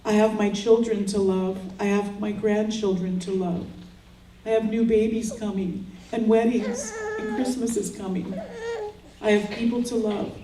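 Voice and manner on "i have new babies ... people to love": choked up. Real, not acted. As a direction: voice lifts and catches, close to tears. Grieving mother speaks at daughter's memorial.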